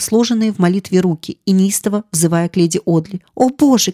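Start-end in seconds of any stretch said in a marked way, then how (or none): 3.3-3.9 high, raised cry to God; anguished cry. Acted. Kneeling maid cries out to heaven, anguished. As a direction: break out in a desperate plea. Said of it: "кричала она".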